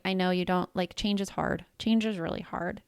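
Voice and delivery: quiet acknowledging tone to a daughter; soft reassurance. Retold or imitated. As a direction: soothe her while holding her close. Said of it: "I pulled her close. I hugged her. I breathed deeply".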